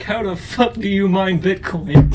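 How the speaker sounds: high, slow comic meme voice; mock baffled man. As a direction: voice a clueless would-be miner, hammed-up.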